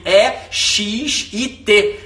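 "E X I T" spelled slowly, letter by letter; slow spelling of E X I T. Shown as a demonstration. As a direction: spell out E X I T deliberately. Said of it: "escrevi hesitar como quem escreve exit".

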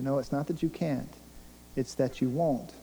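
soft, grave answer as God; understated divine rebuttal; quiet correction. Acted. Voices God answering the listener.

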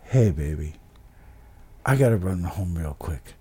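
low, soft gravelly imitation; Sue. Storyteller imitates Sue confessing an accident, low gravelly voice. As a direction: drop into a hushed, raspy older woman's croak. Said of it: "And she goes like this".

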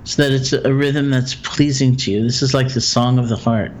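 calm, measured meditation guide with long pauses; guided meditation. Acted. Teacher guiding a listener through loving-kindness phrases, guided meditation. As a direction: guide them gently through it, leaving room for silence.

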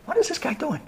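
high, soft wondering to himself; a quiet, puzzled thought; puzzled inner thought. Retold or imitated. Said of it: "And I'm thinking".

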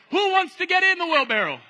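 high, loud call to the crowd; the walker loudly asking the crowd who will climb in; calling out a challenge. Acted. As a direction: dare the crowd to step up.

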